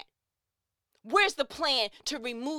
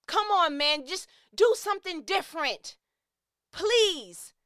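pleading; 6 semitones higher, 5 dB louder than usual. Real, not acted. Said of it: "'cause I'm worked up".

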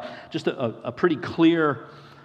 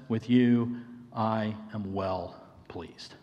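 softer and slow, like a father's gentle approval; hushed, loving affirmation; tender blessing; 4 semitones lower, 3 dB quieter, slower than usual. Acted. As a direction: lower the voice and linger on every word.

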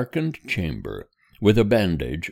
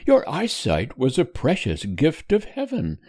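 higher, gently cheerful mother comforting her son; lightly voiced mother; 6 semitones higher than usual. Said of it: "replied his mother cheerfully".

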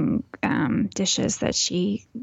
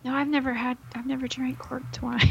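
dry mock-innocent denial, trailing softer; sarcastic; 4 semitones higher, 5 dB quieter than usual. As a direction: say it deadpan, faking innocence. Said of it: "I'm being sarcastic".

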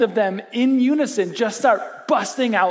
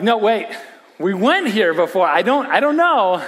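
mock alarm; 3 semitones higher, 6 dB louder than usual. Dad balking at a checkers request.

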